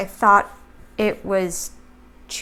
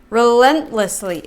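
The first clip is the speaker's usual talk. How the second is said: Relentlessly said louder, drawn out and falling; louder emphatic repeat; 6 dB louder than usual. Shown as a demonstration.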